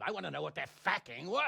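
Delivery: angry demand. Acted. Lord demands coin's value angrily.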